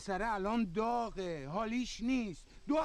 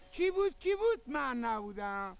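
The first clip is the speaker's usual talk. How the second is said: mocking singsong. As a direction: taunt her like a child's game. Mocking children's rhyme.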